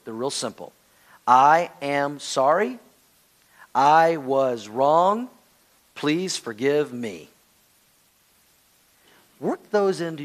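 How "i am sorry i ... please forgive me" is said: very slow, word by word; deliberate model apology. Shown as a demonstration. Preacher teaches nine life-changing words, slow deliberate apology. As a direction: spell out each word slowly, pausing between phrases. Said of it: "Nine life-changing words".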